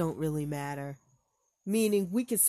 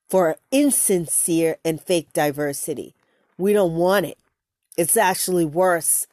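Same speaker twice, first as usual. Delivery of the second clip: heated; 5 dB louder than usual. Real, not acted. Heated rant over clip.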